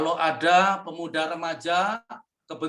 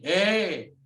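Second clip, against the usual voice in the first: reassuring father; much slower than usual. Shown as a demonstration. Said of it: "Bapak yang benar harus memberi identitas begini".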